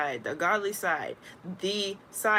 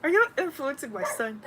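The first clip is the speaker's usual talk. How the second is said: a high mock suspicious voice asking "Are you influencing my son?"; suspicious parent; 7 semitones higher than usual. Mother confronting other children, suspicious and lightly put on. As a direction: eye the other kids and question them with suspicion. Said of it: "I just looked at them like".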